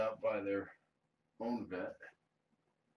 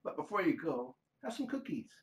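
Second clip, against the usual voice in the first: mock yell easing into a much higher, less loud offer; imagined human cat; 9 semitones higher, 5 dB louder than usual. Playing the cat as a human offering cookies, high put-on voice. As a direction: pitch climbs high as the pretend scolding turns to hospitality. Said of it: "I can picture her yelling".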